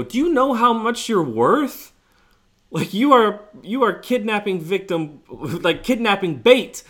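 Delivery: high, loud, half-laughing alarm; retold exasperated warning. Warning Dwight he'll be kidnapped.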